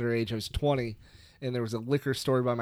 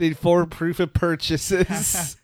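mock ad voice; 4 semitones higher, 5 dB louder, slower than usual. Mocking mail-in offer.

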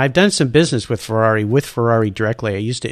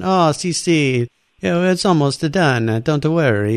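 higher, slow breezy "oh si si"; mock Italian staff; 4 semitones higher than usual. Factory staff stalling the friend, a touch of Italian breeziness. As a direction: brush off the customer lightly.

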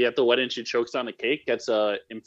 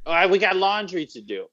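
higher-pitched raspy Chicago wife; Amy's raspy Chicago voice; 7 semitones higher than usual. Acted. Wife reminding husband about chores, raspy Chicago voice. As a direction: nag in a put-on Chicago rasp. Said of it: "that's how she sounds".

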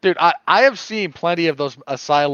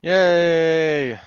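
unenthusiastic yay; 3 semitones higher, 5 dB louder than usual. Acted. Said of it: "My lack of enthusiasm tonight".

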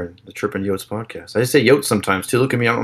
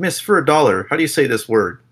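accosting strangers; 3 semitones higher than usual. Pretend. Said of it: "just start asking people".

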